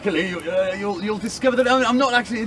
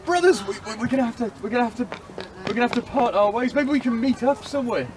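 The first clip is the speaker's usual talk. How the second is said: higher, halting sailor voice, stammering over the words; a lightly voiced sailor, faltering and upset; distressed sailor; 5 semitones higher, faster than usual. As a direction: stumble through breaking the bad news to your brothers. Sailor tells brothers they must part.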